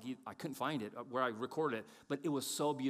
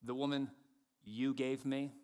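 Adam blaming God. Acted. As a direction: keep it contained and pointed. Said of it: "and then he goes further".

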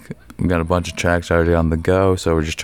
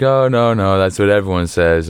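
mocking friends; 2 semitones higher than usual. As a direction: parody the friends' warning. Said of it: "And they're like".

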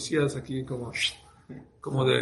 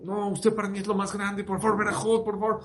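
pleading, higher-pitched imitation of someone near tears; súplica llorosa imitada; 6 semitones higher than usual. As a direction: beg as if about to cry, lightly acted. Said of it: "le empezó a llorar". (ruego lloroso, imitado)

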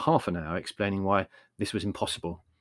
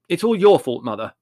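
austere; 6 semitones higher, 10 dB louder than usual. A narrator's reading. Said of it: "said Larry austerely".

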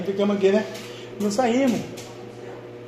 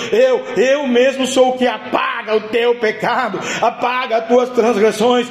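preaching at full force. Acted. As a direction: proclaim it like a pulpit preacher. Preaching God's words at full force.

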